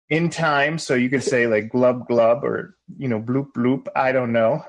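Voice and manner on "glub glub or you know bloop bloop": glub glub bubbling noises; bubbly underwater blub; water sound. Shown as a demonstration. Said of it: "make a water sound".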